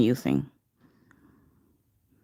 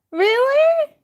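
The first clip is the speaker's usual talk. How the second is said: surprised; 4 dB louder than usual. Real, not acted. Surprised reaction.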